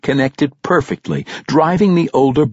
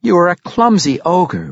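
taunting; 8 semitones higher than usual. A narrator's reading. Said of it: "Regis said".

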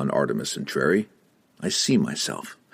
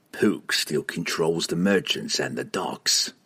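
cold assassin voice; 2 semitones lower, slower than usual. Acted. Entreri speaking.

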